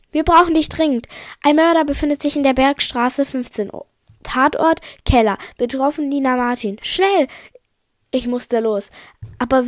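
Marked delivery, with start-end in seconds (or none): 0.1-7.3 raised, pressing mission briefing; urgent call. Acted. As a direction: report an emergency, ending high on a push.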